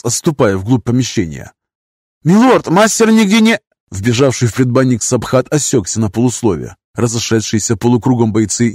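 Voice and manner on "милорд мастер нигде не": high, loud, cut off mid-word; breathless report. A narrator's reading. Soldier rushes in reporting to lord, high and urgent. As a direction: burst in out of breath.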